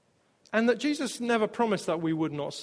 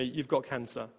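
low, softer, dark whisper-like thought; ominous inner voice; 7 semitones lower, 9 dB quieter than usual. Retold or imitated. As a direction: voice the fear creeping in. Intrusive fearful thought voiced.

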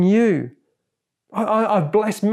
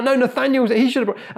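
higher-pitched mock bickering; whining; 6 semitones higher than usual. Disciples arguing over bread, whining. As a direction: whine lightly and shift the blame. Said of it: "they're kind of whining".

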